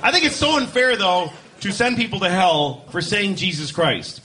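normal talking voice

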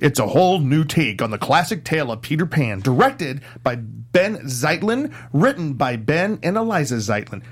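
dramatic trailer narration; movie trailer voice. Pretend. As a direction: epic movie trailer announcer. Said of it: "do your movie trailer voice".

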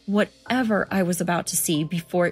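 steady storyteller narration; story narration. A narrator's reading. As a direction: read it like a creepy tale. Reads horror story aloud.

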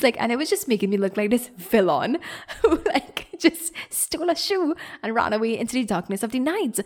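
amused real laughter breaking into the words; laughing. Real, not acted. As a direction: laugh at how bad it looks. Laughing at being painted a villain.

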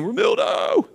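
yelling his name. Retold or imitated. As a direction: shout his name across the crowd. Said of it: "every time I'd yell at him".

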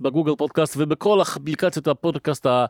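put-on light Russian accent, podcast sign-off; a hint of a Russian accent reading the outro. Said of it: "שאני עושה חיקוי רוסי". (מבטא רוסי קליל)

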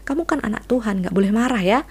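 high, mildly hushing parent voice; a hint of a parent shushing an angry child; soothing parent hushing. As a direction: lightly play a parent telling a child to stop being angry. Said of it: "kadang-kadang kita bilang".

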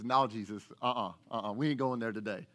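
Peter digs in, Rankin County style. Acted. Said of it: "Rankin County interpretation".

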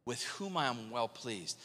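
measured, solemn imitation of God speaking. God declaring his son from heaven, solemn voice of God. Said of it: "A voice from heaven said".

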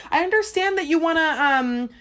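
hammed-up sad service rep; mock devastated rep. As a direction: overplay the rep's sorrow. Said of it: "is she just devastated".

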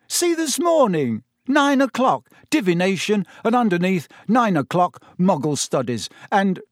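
high, lively and incredulous, a touch of amusement; amused. A narrator's reading. Ron reading Hermione's schedule to her, amused. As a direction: point it out with mock amazement. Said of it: "said Ron, laughing".

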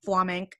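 "Flamenc" with the final o dropped; imitated student error "Flamenc", no last vowel; clipped-off flamenco. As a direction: repeat the student's "Flamenc", stopping on the k. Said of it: "He goes".

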